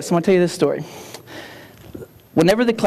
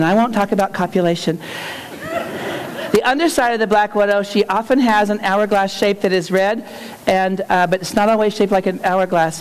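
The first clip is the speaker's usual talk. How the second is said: a slightly raised, careful schoolgirl reading her report; nervous student report. Retold or imitated. Third grader nervously presenting her spider report to class, lightly voiced. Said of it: "you can tell she's nervous".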